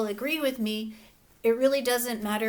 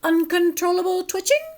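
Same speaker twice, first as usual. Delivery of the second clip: doctor's voice; 3 semitones higher, 4 dB louder than usual. Acted. Doctor listing symptoms.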